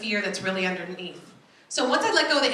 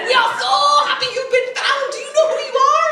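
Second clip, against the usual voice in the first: much higher, louder, laughing joy; excited uncle; 9 dB louder, faster than usual. Retold or imitated. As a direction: gush with delight down the phone. Uncle's joyful greeting.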